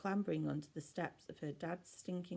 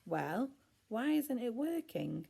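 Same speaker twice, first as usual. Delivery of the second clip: frustrated; 7 semitones higher, 4 dB louder than usual. A narrator's reading. Ella frustrated bashing remote.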